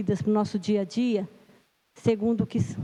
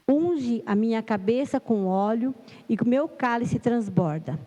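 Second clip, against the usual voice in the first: measured, solemn psalm reading with lilting phrases; scripture reading. Acted. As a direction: read the psalm aloud to a congregation, phrase by phrase. Reads the psalm aloud. (leitura solene e pausada do salmo)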